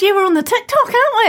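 high ironic "the TikTok"; deliberately daggy, like a parent; ironic uncool phrasing. Real, not acted. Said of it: "saying the TikTok is like".

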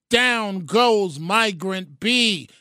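slow, drawn-out boxing announcer call; mock Cosell knockdown call; ringside call. Shown as a demonstration. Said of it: "It's no longer Down Goes Frazier with Howard Cosell".

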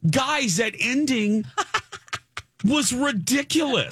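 laughing mid-sentence. Real, not acted. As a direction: break up laughing on the ending. Laughing through a complaint.

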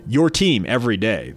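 booming on-air slogan read; radio announcer voice. Shown as a demonstration. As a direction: sell it like a radio jingle. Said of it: "My radio announcer voice".

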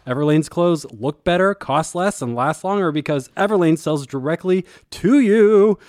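playful sales pitch with the voice climbing; put-on rising pitch, hamming up the ad; voice going up. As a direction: let your voice ride up to push the point. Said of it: "I'm gonna continue to talk like this".

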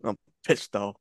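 mock Aaron. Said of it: "That's Aaron, Aaron last night after the Super Bowl".

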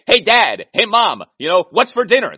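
mock familiar greeting. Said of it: "you say".

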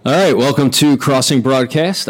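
rough sleep-deprived morning voice. Real, not acted. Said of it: "Man, your voice alone, are, are you gonna die?".

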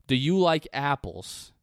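put-on slow, pointed Boston accent movie line. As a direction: quote Good Will Hunting in a Boston accent. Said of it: "my Boston accent".

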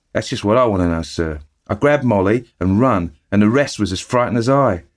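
chatty eager bellboy reporting the news; Cockney bellboy. Acted. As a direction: Thomas the bellboy gossiping to his master. Thomas explains.

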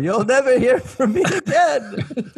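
high, slow hammed-up farewell; departing chef. Chef leaving the room for good, high melodramatic voice. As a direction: call it out high and drawn out. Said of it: "can the chef just be like".

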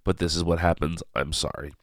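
stuffy, blocked nose; nasal voice from a cold. Real, not acted. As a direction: speak through a head cold. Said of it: "I apologize for my nasal voice".

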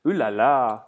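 hammed-up French chef. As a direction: toss it off like a cartoon French chef. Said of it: "I'd like to hear it in French".

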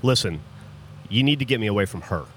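lightly imitated gruff guy, low and hurried; a hint of low mountain-man gravel; quick, low mock big-guy voice; gravelly mountain man. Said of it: "gravelly voice".

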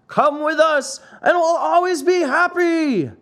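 put-on high, bright chorus of boys; boys crying out. A narrator's reading. Boys in the wagon urging Pinocchio, high excited cry. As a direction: chime in high as eager boys. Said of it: "shouted the one hundred".

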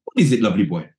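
a hint of his offhand manager voice; imitating Ruud Gullit. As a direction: manager finally turning to the player. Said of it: "in turn".

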